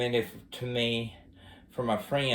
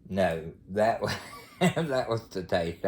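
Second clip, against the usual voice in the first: laughing; slower than usual. Real, not acted. Laughing at own slip.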